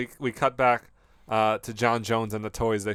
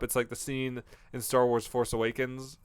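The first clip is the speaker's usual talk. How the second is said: ordinary talk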